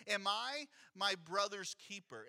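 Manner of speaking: slow, lightly sarcastic question, falling at the end; understated sarcasm, slowed down; sarcastic rhetorical. Shown as a demonstration. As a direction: drag it out as if the answer is obviously no. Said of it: "sarcastic, rhetorical question".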